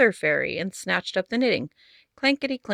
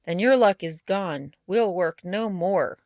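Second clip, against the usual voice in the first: grumbling; slower than usual. Acted. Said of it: "grumble and growl".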